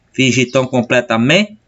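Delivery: "completamente" lifted at "men", then a short "te"; stress on MEN. Shown as a demonstration. Teacher repeating the verse for students, stressing "men" in "completamente". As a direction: mark "men" as the last strong beat of "completamente". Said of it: "mais forte, parou aqui de contar".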